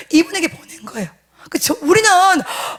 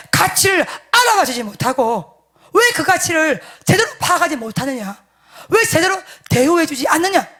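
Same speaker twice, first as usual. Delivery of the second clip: rebuke; 2 semitones higher than usual. Retold or imitated. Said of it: "뭐 이렇게 책망이 나오는 거야".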